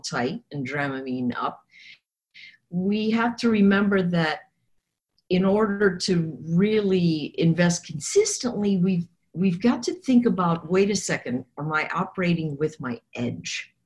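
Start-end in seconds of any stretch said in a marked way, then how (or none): 2.7-13.7 hoarse from coughing all night; raspy, coughed-out throat; froggy voice. Real, not acted. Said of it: "the reason I sound like I've been smoking a lot of cigars".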